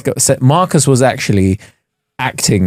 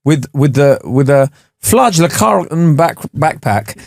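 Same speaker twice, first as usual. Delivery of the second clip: put-on Norwegian accent; slower than usual. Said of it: "boom, Norwegian accent".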